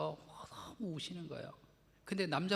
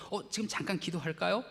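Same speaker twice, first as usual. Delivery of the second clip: gentle offer; 4 semitones higher, 3 dB louder than usual. Shown as a demonstration. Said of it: "그러면서 같이 기도하세요".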